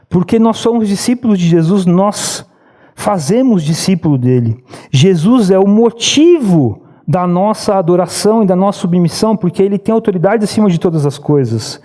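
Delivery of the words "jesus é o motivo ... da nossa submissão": usual speaking voice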